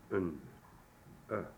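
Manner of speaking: "Un, uh" as the end of pardon; uh vowel demo. Shown as a demonstration. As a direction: isolate the short vowel in "Un, uh". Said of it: "pronounced like the letter O".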